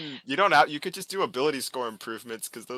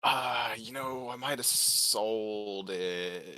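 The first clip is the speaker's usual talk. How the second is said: sheepish drawl; much slower than usual. Real, not acted. Sheepish confession about selling armor.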